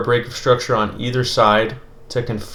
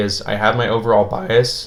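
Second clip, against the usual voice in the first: cracking, breaking voice, slower. Speaker explaining their approach to listeners, voice cracking. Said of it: "Excuse the voice crack there".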